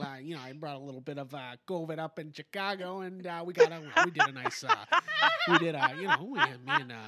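lightly voiced Dan Aykroyd impression; a hint of Blues Brothers Aykroyd; bad Dan Aykroyd. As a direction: friend doing a bad Dan Aykroyd, close to his own voice. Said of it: "that's my bad Dan Aykroyd".

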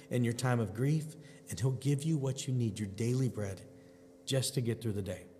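slightly soft, unhurried pastoral delivery; gentle devotional reassurance. Real, not acted. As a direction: reassure the listener gently, with reverent pauses.

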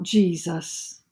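restrained cry. Acted. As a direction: draw out a quiet appeal to Jesus. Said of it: "And we cry out".

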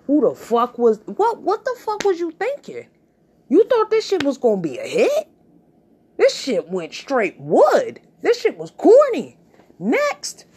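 loud, high outraged judge; mock judge rant. Talent show judge slamming a corny act, loud and high. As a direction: tear into the act and dismiss it.

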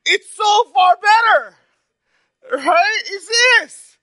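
high, loud, laughing and tearful. Real, not acted. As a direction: laugh through the words to the congregation. Laughing through his preaching.

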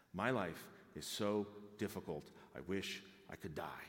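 a touch of mock misery; self-pitying Jonah. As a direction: sigh out his complaint. Voicing Jonah's complaint again.

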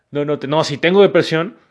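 emphatic self-talk. Pretend. Telling yourself firmly you have depression. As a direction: push back at yourself out loud. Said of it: "digas como".

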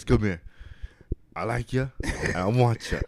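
quiet, understated menacing come-on; lightly voiced predatory suitor, matter-of-fact; booty warrior. Prisoner tells a man he wants him, understated menace. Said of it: "I tell him like this".

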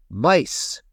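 a touch of storybook alarm; alarmed thought. A narrator's reading. Little paintbrush woken by noise fears mice, mildly alarmed.

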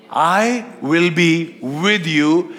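slow, drawn-out, lightly voiced divine promise; voice of God. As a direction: stretch each word like God reassuring. Preacher voicing God's reply.

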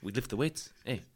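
put-on light Romanian accent in broken English, friendly; a mates' invite to the gym, lightly done in a Romanian accent; Bogdan's Romanian accent. Romanian teammate Bogdan inviting him to train, in a light Romanian accent. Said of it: "he talks like this".

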